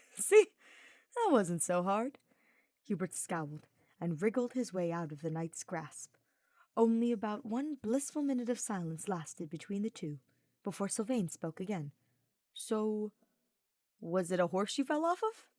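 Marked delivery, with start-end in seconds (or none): 0.1-2.2 chuckling. Acted. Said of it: "He chuckled". 12.5-15.5 lightly raised teasing knight; breezy, teasing young knight; Sylvain's voice. Acted.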